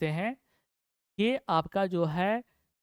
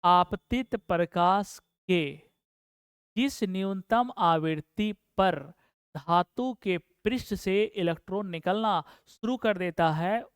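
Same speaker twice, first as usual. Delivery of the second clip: measured restatement. Shown as a demonstration. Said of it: "इसका परिभाषा हम फिर से बोल देते हैं".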